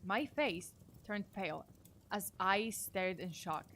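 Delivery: measured scary-story reading with pauses; story narration. A narrator's reading. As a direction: read it like a creepy tale, phrase by phrase. Reads a story aloud.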